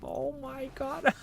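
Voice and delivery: breathless wonder; freaking out. Real, not acted. Streamer overwhelmed by what they see, whispered awe. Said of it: "I'm freaking out, guys".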